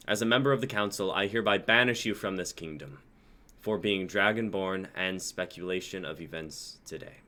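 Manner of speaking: loud, fast official verdict; stern banishment. Acted. Council head banishes the dragonborn, loud stern verdict. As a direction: read the sentence out like a judge. Magnus banishes Zane publicly.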